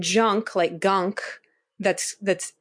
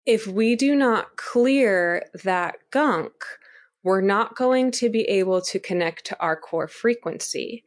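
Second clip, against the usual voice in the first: robot voice. Real, not acted. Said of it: "this is why I'm talking like a robot".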